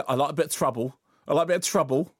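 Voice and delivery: mimicking a forced London accent; mock cockney tough talk; put-on London accent. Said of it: "putting it on with it".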